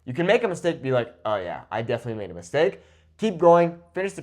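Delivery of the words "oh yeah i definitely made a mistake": quick, low, casual shrug-off; lightly acted nonchalance; unbothered admission. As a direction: play someone taking it in stride, fast. Acts unbothered reaction to a mistake.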